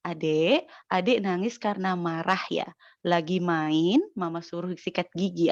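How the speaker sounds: put-on mother soothing her child after a tantrum, gently; gentle mother to child. Mother gently coaching crying child.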